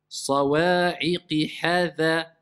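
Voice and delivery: slow, drawn-out tajwid chant; Quran recitation. Shown as a demonstration. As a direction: recite it slowly with long prolongations. Teacher recites Quran verse. (récitation lente du Coran)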